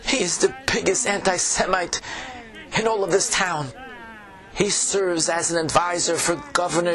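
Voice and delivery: put-on old tavern keeper, Yiddish accent; fretful innkeeper with a Yiddish lilt.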